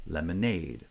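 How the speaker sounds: main stress on the last syllable of lemonade; secondary stress on first foot. Shown as a demonstration. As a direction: lemonade with a lighter first stress, strongest ending. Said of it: "it's secondary stress".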